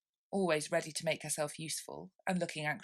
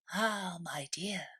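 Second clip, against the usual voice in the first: whisper; slower than usual. Acted. Old crab to daughter.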